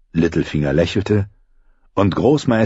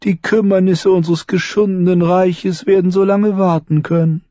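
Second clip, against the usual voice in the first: lightly raised voice of a clever dwarf lord; Tyrion, courteous but sly; 12 semitones higher, 4 dB louder than usual. Acted. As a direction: speak with polite irony to the lords. Tyrion addresses the council.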